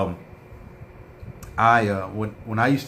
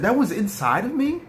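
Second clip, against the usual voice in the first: much higher, strained shocked question; reliving disgust at the worm; horrified disbelief; 14 semitones higher, 4 dB louder than usual. Retold or imitated. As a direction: squeak out the horror.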